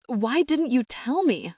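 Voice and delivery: cried out with the pitch up high. A narrator's reading. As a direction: fling the question out high, near breaking. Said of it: "I cried".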